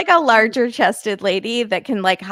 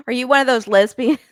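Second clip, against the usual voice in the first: put-on Southern accent; 3 semitones higher than usual. Co-host voicing the boyfriend questioning Claire, mock Southern accent. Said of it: "I don't know why I made him Southern".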